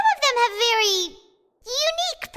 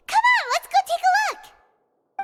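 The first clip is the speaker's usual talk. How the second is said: eager; 8 semitones higher, 3 dB louder than usual. Acted. Paimon eager to go investigate.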